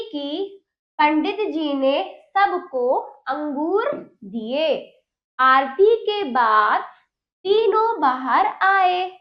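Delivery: slow, clear classroom read-aloud; reading to children. Shown as a demonstration. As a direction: read each word slowly for young pupils. Teacher reads practice sentences.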